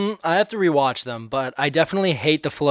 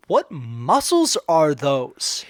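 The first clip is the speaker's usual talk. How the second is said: imitating Julie; 3 semitones higher than usual. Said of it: "Julie goes".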